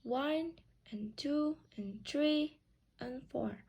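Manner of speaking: slow count, ONE and TWO and THREE and FOUR with light "and"; measured count leaning on each number; stressed numbers. Shown as a demonstration. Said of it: "we add a word "and" between the number".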